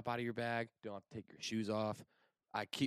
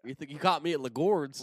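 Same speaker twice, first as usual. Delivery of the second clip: teasing; 5 semitones higher, 13 dB louder than usual. Pretend. Teasing mock repeat.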